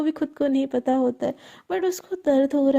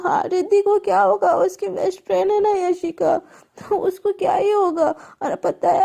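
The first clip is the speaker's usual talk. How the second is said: hurt, tearful complaint; 4 semitones higher than usual. Acted. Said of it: "ऐसे बोल के वो रोने लगती है".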